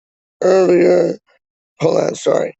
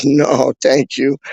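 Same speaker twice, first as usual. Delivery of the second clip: slow dismissive no thanks; slower than usual. Retold or imitated.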